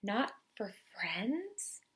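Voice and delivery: soft slow rising "Not"; wondering question. Acted. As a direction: ask it back, hushed and amazed. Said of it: "asked the mouse".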